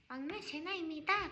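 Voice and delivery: high, soft little youngest-member voice; cute maknae introduction. Acted. Leader wishing she could be youngest, high soft cutesy intro. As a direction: introduce yourself softly and high, like the baby of the group. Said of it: "나도 이렇게 그냥".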